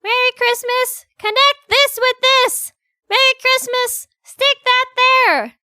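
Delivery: very high, loud gleeful cheering; excited high girl. Acted. Schoolgirl cheering the fixed weapon, very high and giddy.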